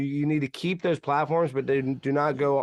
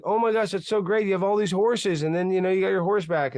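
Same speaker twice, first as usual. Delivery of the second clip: higher, excited gushing townsfolk; mock excited townspeople; 5 semitones higher than usual. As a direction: gush like a thrilled neighbour. Excited townspeople voiced in parable.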